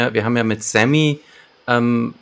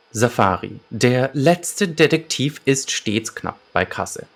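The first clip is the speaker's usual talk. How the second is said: measured synopsis read-out with deliberate pauses; story narration. A narrator's reading. Podcast host presents the detective's case to listeners, narrating. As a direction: read the case summary like an audio-drama narrator. Reads the episode synopsis aloud.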